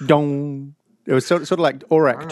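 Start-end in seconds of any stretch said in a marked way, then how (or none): 0.0-0.8 mock Cylon fade-out. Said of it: "a Cylon fade out".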